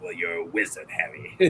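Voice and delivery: low, soft giant impression; Hagrid. Hagrid telling Harry he's a wizard, low soft impression. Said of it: "I really liked Hagrid".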